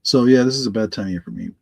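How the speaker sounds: congested, slightly raspy voice. Real, not acted. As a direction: talk through allergy congestion, raspy. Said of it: "my voice may sound a little raspy".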